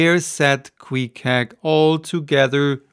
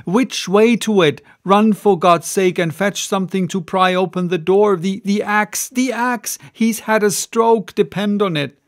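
cried; 4 semitones higher, 3 dB louder than usual. Acted. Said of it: "cried I".

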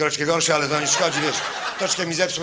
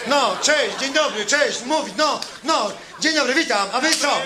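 lively greeting; 4 semitones higher than usual. Shown as a demonstration. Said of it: "models lively greetings".

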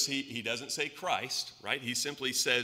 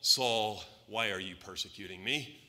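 lightly voiced heavenly caller, loud first name falling away; 3 semitones lower, 5 dB louder than usual. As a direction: call out the name, then question him lower. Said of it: "and a voice from heaven".

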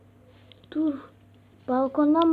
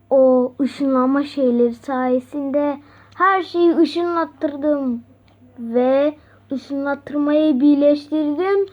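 booming echoing villain monologue; 4 dB louder than usual. Acted. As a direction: gloat like a cartoon villain. Villain boasts of his powers.

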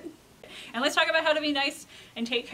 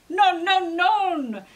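raised, loud French protest; shouting servers; 7 semitones higher, 8 dB louder, much slower than usual. A narrator's reading. Servers refuse the alpacas, loud acted shout. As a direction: call out a firm, high refusal. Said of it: "shouted the servers".

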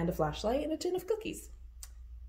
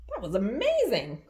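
a little louder, thrilled; excited cry; 5 dB louder than usual. Acted. Bunny praising her rescuer, a touch louder. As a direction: cheer him on. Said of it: "cried Luna".

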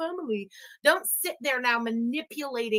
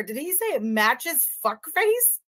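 slow careful replay; slower than usual. Real, not acted. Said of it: "I have to hear that again".

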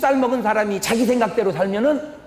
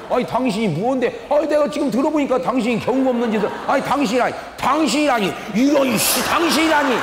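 rising, heated back-and-forth; mock quarrel; 3 semitones higher than usual. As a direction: act out two strangers squaring off, building. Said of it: "그 사람이".

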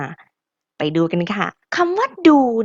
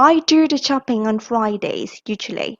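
slow model for repeating; much slower than usual. Shown as a demonstration. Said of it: "Are you ready?".

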